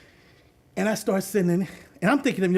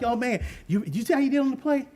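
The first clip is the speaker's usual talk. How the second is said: put-on higher, quicker, thrilled kid voice; excited kids; 6 semitones higher than usual. Excited kids after the game.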